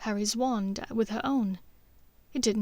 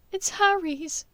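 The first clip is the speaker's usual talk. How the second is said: mournful; 9 semitones higher, 3 dB louder, slower than usual. A narrator's reading. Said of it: "she said mournfully".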